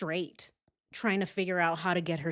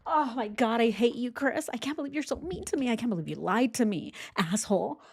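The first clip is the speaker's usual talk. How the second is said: higher-pitched mock whiny outrage; mock pissed off; 3 semitones higher than usual. Host pretends to rage at lying boyfriend, mock outrage. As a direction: act out a hurt rant without shouting. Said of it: "I'm so pissed".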